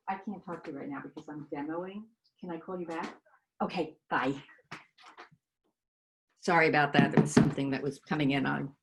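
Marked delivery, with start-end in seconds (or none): 0.1-4.3 dodging a caller. Real, not acted. Brushing off caller during demo.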